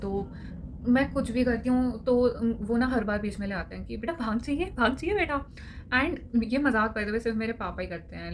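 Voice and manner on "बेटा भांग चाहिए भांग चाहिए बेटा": playful teasing, rising at the end; teasing joke. Retold or imitated. Papa teasing daughter about the bhang, jokingly. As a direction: tease her gently, just for laughs. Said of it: "in a हंसी वजा- वाला वे".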